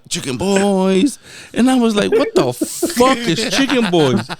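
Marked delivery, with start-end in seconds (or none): 0.1-1.2 slow, higher, drawn-out slogan; imitating a commercial. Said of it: "pinche comercial". 2.1-4.3 high, slow incredulous question; hammed-up exasperation, swear leaned on; retold bafflement. Repeats his baffled reaction.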